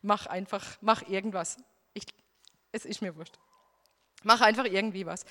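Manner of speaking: low, giving up on God's will; resigned surrender. Retold or imitated. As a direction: let it go, tired of fighting. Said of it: "ich hab kapituliert".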